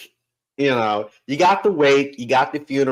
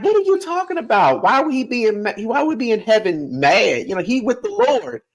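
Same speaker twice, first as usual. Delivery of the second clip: put-on much higher, a scandalized old grandma; grandma's voice; 7 semitones higher than usual. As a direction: pitch it way up as an outraged grandmother. Grandma answering in a story.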